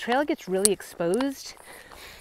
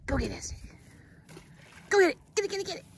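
yelling from the sidelines; 9 semitones higher, much faster than usual. Real, not acted.

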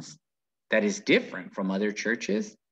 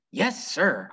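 mild mock yell back; 5 semitones higher than usual. Opal yelling back to the preacher, mildly raised. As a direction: call back without real shouting. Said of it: "I yelled back".

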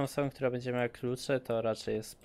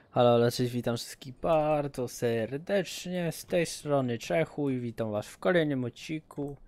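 streamer intro; 3 semitones higher, 5 dB louder than usual. Acted. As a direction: stretch the welcome out loudly, like a host. Opens the stream with greeting.

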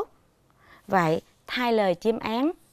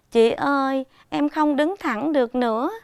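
hurt and aggrieved; 4 semitones higher than usual. Acted. Teacher voicing the hurt grass to pupils, aggrieved. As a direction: plead like hurt young grass. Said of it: "đọc với giọng đau đớn, ấm ức".

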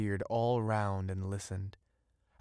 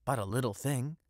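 louder, higher, fast joyful outburst; joyful cry; 4 semitones higher, 5 dB louder, faster than usual. Acted. Fisherman crying out his joy to the witch, loud and fast. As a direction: blurt it out full of joy. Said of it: "cried the young fisherman".

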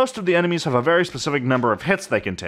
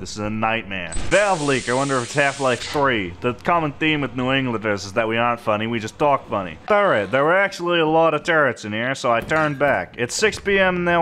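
put-on a broad New England accent kept up for laughs. Gamer narrating a Lethal Company run in a New England accent. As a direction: lay the New England accent on thick, half joking. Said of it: "you thought I was gonna stop the accent".

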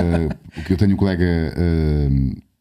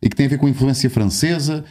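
lightly imitated colleague, pitched up; Telmo Ramalho; 5 semitones higher than usual. Colleague sending a question for the professor, lightly imitated. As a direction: relay a colleague's question in a slightly put-on higher voice. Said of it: "ele sabia que hoje ia, ia estar a conversa contigo".

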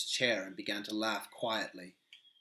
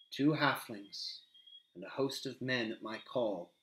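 menacing Faramir. Acted.

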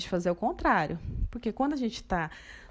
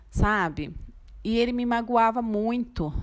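ordinary talk, nothing marked

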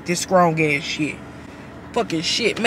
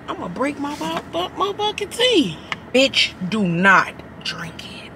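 whisper; 2 semitones higher, 5 dB quieter than usual. Real, not acted. Warning viewers after tasting.

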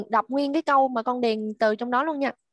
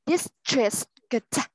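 district said slowly, every sound drawn out; slow model. Shown as a demonstration. Teacher reads district slowly for the class. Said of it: "Mình đọc chậm đấy".

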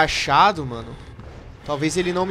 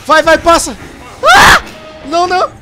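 high, loud terrified scream; 11 semitones higher, 12 dB louder, slower than usual. Real, not acted. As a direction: scream as it catches you. Monster chasing, screaming.

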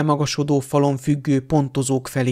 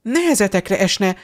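exasperated; 3 semitones higher than usual. Acted.

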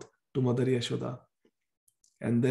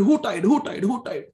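demanding who did it; 5 semitones higher, 5 dB louder than usual. Acted. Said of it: "he's asking everybody".

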